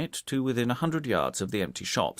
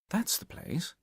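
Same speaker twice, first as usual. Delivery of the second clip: hushed, quiet spotting of the hideout; mild whisper, said under the breath; 10 semitones higher, 6 dB quieter than usual. A narrator's reading. Hewitt to Kentish at the window, a soft hushed whisper. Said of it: "Hewitt whispered".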